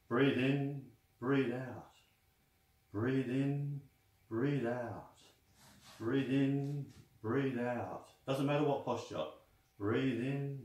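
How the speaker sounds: guided breathing cues. Shown as a demonstration. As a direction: coach the class through each breath. Coaches a breathing exercise.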